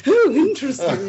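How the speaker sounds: high and loud, laughing. Acted. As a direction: laugh the words out. Echoing the joke, laughing.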